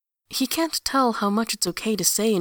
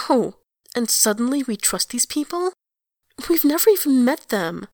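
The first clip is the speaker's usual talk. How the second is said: rising, louder angry protest; 5 semitones higher, 4 dB louder than usual. A narrator's reading. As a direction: build to an angry outburst. Eponine angry argument.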